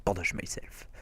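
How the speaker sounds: murmure pour soi-même; chuchoté. Real, not acted. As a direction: chuchote en aparté. Commente son inventaire à voix basse. (chuchote pour lui-même)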